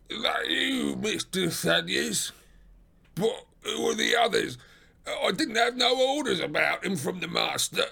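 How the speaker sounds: high, gruff suspicious porter; McMurdo. Acted. Porter questioning late visitors at the door, gruff character voice. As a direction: question them like a wary doorkeeper.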